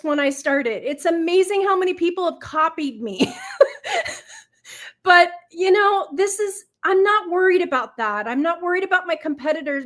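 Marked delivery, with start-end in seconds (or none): 0.9-8.3 fighting back real tears, a crying laugh breaking through; tearful. Real, not acted. Guest to host, moved about her blankets, tearful.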